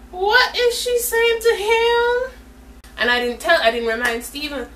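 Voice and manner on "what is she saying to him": very high, slow, drawn-out squeal; alarmed wondering. Retold or imitated. Storyteller watching the girl talk to Steven, alarmed wondering. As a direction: stretch it out in a high, worried singsong.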